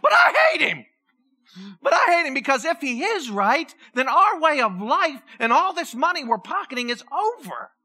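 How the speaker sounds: sudden high outburst of spite that settles back down; a touch of a spiteful priest. Retold or imitated. Pastor voicing a religious leader stumped by Jesus, with sudden spite. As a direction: blurt out the hatred, then grumble. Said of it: "They're like".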